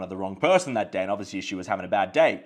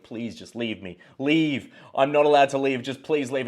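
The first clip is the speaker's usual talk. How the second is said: mock pleading that grows more urgent; 3 semitones higher, 4 dB louder than usual. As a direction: imitate a desperate plea to be left alone. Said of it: "begging her".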